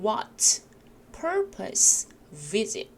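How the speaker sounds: each of "what", "purpose", "visit" stressed and separated; strong key words. Shown as a demonstration. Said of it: "세게 읽으실 부분".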